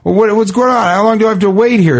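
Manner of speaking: mock yell, pitched well up; retold screaming. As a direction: imitate an irate stranger without raising the volume. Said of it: "he's just screaming at her".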